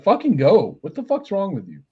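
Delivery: high, exasperated mock yell; retold yelling. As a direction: imitate someone impatiently yelling at you. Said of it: "He just starts yelling at me".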